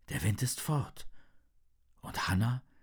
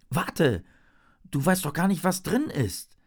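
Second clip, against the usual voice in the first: calling out; 5 semitones higher than usual. Acted. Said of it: "ruft seine Freundin".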